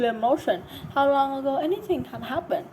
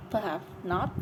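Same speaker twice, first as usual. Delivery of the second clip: soothing; 4 semitones lower, 7 dB quieter than usual. Acted. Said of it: "in a soothing tone".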